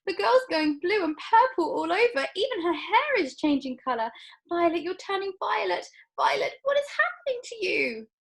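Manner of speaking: very high, frantic wail; hysterical mother. A narrator's reading. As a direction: lose her composure. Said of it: "yelled Missus Beauregard".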